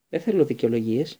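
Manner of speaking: curt. Acted. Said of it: "είπε κοφτά ο Λούπιν".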